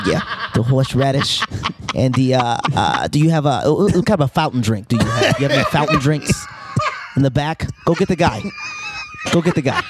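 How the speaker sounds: lightly voiced nervous New Yorker; hint of a fussy Woody Allen; Woody Allen impression. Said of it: "Woody Allen ordering a sandwich".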